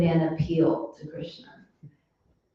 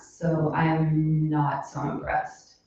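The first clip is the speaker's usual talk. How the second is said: louder sarcastic hello; unimpressed Krishna; 4 dB louder, slower than usual. Retold or imitated. Krishna to the stingy rich giver, lightly sarcastic. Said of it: "Krishna's like".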